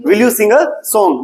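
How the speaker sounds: slow, word by word for the class; slow classroom drill voice; slow teacher model. Shown as a demonstration. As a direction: spell it out slowly so they can repeat. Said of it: "क्या बोलेंगे दिया?".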